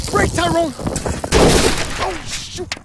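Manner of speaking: loud, high warning yell; urgent shout. Acted. Teaching bike, kid crashes.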